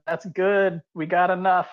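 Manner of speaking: a restrained in-character yell; mild yell. Acted. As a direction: call out to stop them, half-heartedly. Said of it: "I'll yell out".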